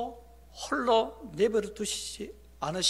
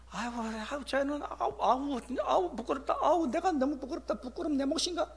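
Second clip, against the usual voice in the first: embarrassed muttering; 7 semitones higher than usual. Acted. Someone ashamed of their own kin, muttering in embarrassment. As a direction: fret under your breath in acted shame. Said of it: "부끄러워하면서 외면하지".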